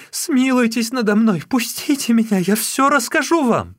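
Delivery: the sister-in-law begging her brother-in-law to spare her; shrieking plea. Acted. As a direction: beg for mercy at the top of your voice. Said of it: "завизжала она".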